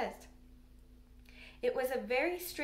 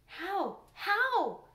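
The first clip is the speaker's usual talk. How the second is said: high, eager repeated question; eager cry; 8 semitones higher, 4 dB louder than usual. A narrator's reading. Mary eagerly presses the gardener, crying out. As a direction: burst out, forgetting caution. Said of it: "cried Mary".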